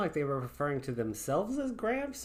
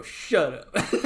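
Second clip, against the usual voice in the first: laughing; 5 semitones higher than usual. Acted. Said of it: "I go".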